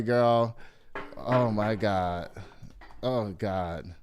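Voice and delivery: low, soft mumbling under her breath; muttering to herself. Real, not acted. Host hunting for the new photo, low and soft under her breath. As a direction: grumble quietly while searching.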